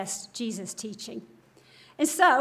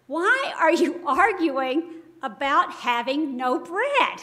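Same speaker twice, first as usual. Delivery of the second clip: slow, louder disbelief at his friends; incredulous; 4 dB louder, slower than usual. Retold or imitated. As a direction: ask it like you can't believe they missed it. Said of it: "He's incredulous with this".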